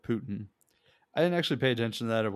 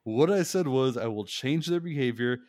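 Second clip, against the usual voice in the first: imitating a snap; 2 semitones higher, 4 dB louder than usual. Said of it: "he just snapped".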